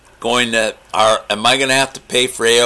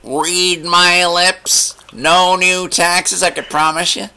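slow, drawn-out presidential impression; mock political promise, each word dragged out; 6 semitones higher, slower than usual. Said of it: "How about this one?".

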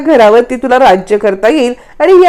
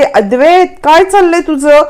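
irritated snap; 5 semitones higher than usual. Retold or imitated. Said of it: "चिडते".

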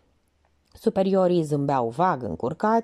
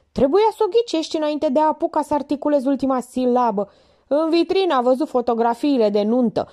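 higher, louder sarcastic scolding; Minerva, mocking; 8 semitones higher, 4 dB louder than usual. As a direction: Minerva mocking Dobrescu's slowness. Minerva mocks the lieutenant.

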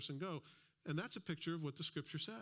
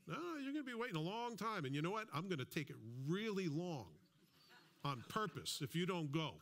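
mock insistent; 3 semitones higher than usual. Insisting politely.

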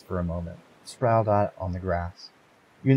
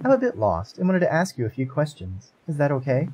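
polite heroine; 6 semitones higher than usual. Acted. Heroine voiced in story.

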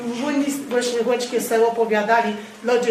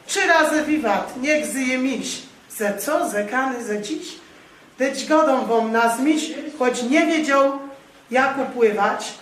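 measured recital with question-and-answer turns; poem recital in Goral dialect. Acted. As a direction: recite the folk song like a storyteller. Reads dialect poem aloud.

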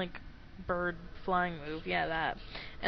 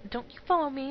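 voicing game character; 6 semitones higher, 4 dB louder, faster than usual. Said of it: "now he's like".

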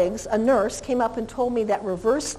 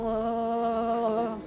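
chattering dog sound; 7 dB quieter than usual. Retold or imitated. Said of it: "start going".

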